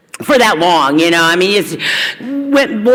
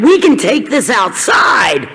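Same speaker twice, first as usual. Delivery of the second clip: challenge to fight; 4 semitones higher, slower than usual. Retold or imitated. Shelter fight with bunkmate.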